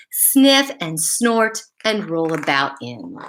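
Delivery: slow, rhythmic picture-book reading; storybook reading. Acted. Teacher reading a rhyming dog story to kids, lilting storybook voice. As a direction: read the rhyme to children, savoring it.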